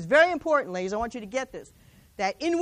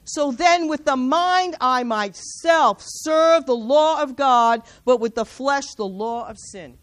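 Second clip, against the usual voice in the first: proclaiming; 2 semitones lower, 6 dB louder, slower than usual. Retold or imitated. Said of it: "He goes on to say".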